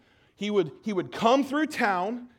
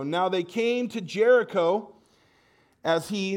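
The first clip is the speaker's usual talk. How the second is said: slow, measured Bible reading; scripture reading. Acted. Pastor reads Mark to the standing church, slow and measured. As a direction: read God's word to the standing church.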